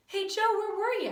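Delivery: high, loud schoolkid greeting; excited calling out. Acted. Classmate back from recess hails Joe, excited shout. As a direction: call across the room to a friend.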